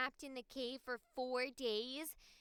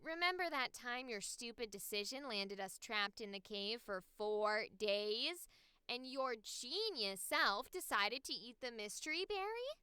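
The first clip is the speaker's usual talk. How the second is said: snarky, lower-pitched character read; 4 semitones lower than usual. Acted. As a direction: needle a friend over their blunder, less childlike. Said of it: "I tried to go a bit more, like, snarky".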